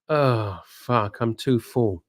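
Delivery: low, soft, weary groan of fullness; mock an overstuffed date, low and soft; too full to move. Voicing an overfed dinner date.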